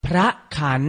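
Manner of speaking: พระขัน said carefully as phra-khan; careful teaching read of พระขัน; pronunciation model. Shown as a demonstration. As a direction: model พระขัน in two separated syllables. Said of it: "ออกเสียงพร้อมๆพี่ไทยให้ถูกต้อง".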